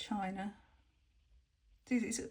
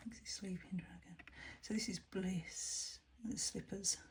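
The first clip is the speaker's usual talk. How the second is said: soft whisper; 5 dB quieter than usual. Real, not acted. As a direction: whisper the card names softly. Whispering card names softly.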